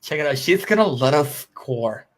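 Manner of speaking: lightly voiced low cartoon slacker; a low, slightly put-on dumb cartoon voice; Beavis and Butthead. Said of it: "I used to love Beavis and Butthead".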